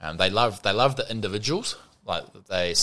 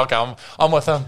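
laughing sheepish tag-along; 8 semitones higher, 6 dB louder than usual. Retold or imitated. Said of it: "You go".

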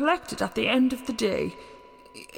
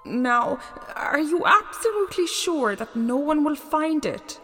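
higher-pitched anxious questioning; 8 semitones higher than usual. Acted. God entrusting his chest to friends, anxious. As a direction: press for assurance, acted worry. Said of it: "asked Mercury anxiously".

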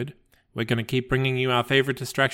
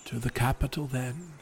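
calm, even storyteller read of a gentle fable; story narration; 4 dB quieter, slower than usual. A narrator's reading. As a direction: tell it like a bedtime legend. Reads a fable aloud.

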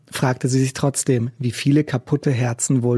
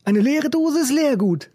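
raised, rough busker voice; gruff old street musician; 12 semitones higher than usual. A narrator's reading. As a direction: play the cynical old busker. Macke tells joke.

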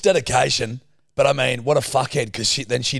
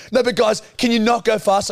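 higher, imitated fretful pleading; mock squealing plea; 6 semitones higher, 3 dB louder than usual. Man mimics partner pleading with the crew, mock squealing. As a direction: mimic a nervous passenger begging. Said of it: "squeal about it".

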